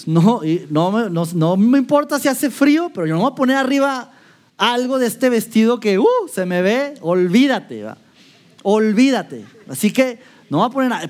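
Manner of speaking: a stubborn, vain woman who won't cover her dress; preacher mocking the vain wife, stubborn. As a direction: brush off the cold with pride.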